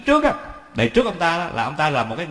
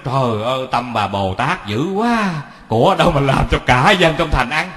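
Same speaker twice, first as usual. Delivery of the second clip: startled husband; 4 dB louder than usual. Retold or imitated. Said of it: "cái ông giật mình nói".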